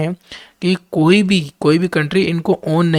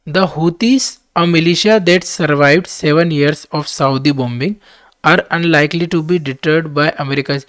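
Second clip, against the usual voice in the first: reading the English text out very slowly and deliberately; slow dictation reading; much slower than usual. Acted. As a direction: spell out each word for students to follow. Reads editorial aloud slowly. (धीमी गति से पाठ पढ़ना)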